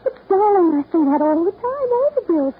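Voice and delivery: high and loud, with a crying edge; a choked, rising protest; tearful protest. Acted. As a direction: cover the panic with a weepy laugh. Caught out, brushing it off.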